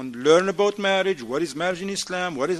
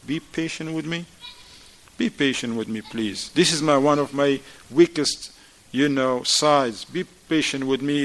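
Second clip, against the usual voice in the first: humble admission. Acted.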